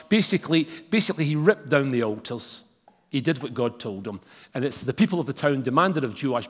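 measured Bible reading to the congregation; scripture reading. Acted. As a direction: read the passage with weight. Long scripture reading aloud.

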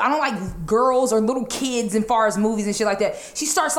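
usual speaking voice

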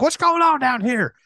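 high-pitched put-on voice; imitated intruding character. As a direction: act someone barging in to check. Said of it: "He's like".

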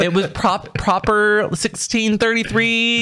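drawn-out formal diction; slow mock-posh labelling; slow and proper. Shown as a demonstration. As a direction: stretch proper sixteen thirty-three slowly. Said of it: "I can't wait to hear what you think that was".

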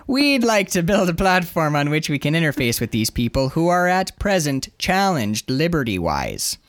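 mock-Canadian officialese, slowing at the end; put-on Canadian police spokesman; Canadian accent. Sergeant explaining to press, Canadian accent. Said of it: "he's kinda close to Canada".

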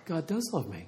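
softly voiced realization, imitating the man; dawning realization. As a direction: say it quietly, as it sinks in. Doubter's dawning realization retold.

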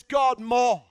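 earnest plea. Retold or imitated. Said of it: "an attitude and a heart that says".

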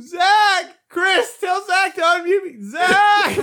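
high, whiny mock shouting; retold yelling. Imitating muted John begging to be unmuted, yelling. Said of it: "hear him through everyone else's speakers going".

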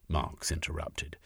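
ordinary delivery, nothing marked

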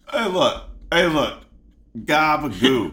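hammy Italian-American mobster; comic wiseguy Italian accent. Pretend. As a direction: insist in a mock Italian accent. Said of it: "I get to do my Italian accent".

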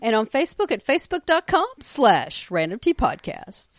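booming trailer announcer read; movie trailer voice. Pretend. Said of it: "It's the movie trailer voice".

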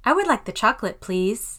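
polite request, lift the voice on "please"; polite intonation. Shown as a demonstration. Teacher demonstrating politeness in review, rising polite tone on "please". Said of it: "I will try to demonstrate this".

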